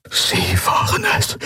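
unvoiced, breathed "Sie waren es"; breathed whisper. A narrator's reading. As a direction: let the words escape as a horrified breath. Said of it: "hauchte er".

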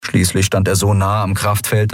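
ordinary delivery, nothing marked

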